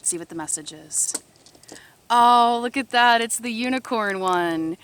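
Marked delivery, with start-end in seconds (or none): 2.1-4.8 excited. Real, not acted. Excited at pulled unicorn card.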